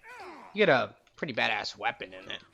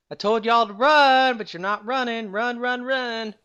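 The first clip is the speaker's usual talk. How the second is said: louder, higher, fed-up command; exasperated yell; 10 semitones higher, 8 dB louder than usual. Pretend. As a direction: yell at them for not listening. Frustrated at party not running.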